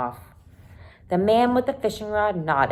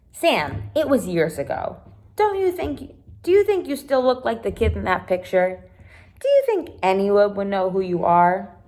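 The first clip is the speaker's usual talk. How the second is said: lightly voiced girl, a touch higher and coaxing; reassuring Caroline; 3 semitones higher, 4 dB louder than usual. Caroline reassures Sam about the old picture, mildly higher voice. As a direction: gently talk him out of his worry.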